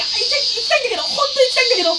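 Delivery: high, pleading mock anguish; hammed-up high-pitched lament; exaggerated regret. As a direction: ham up how badly he wants to go. Overacted regret.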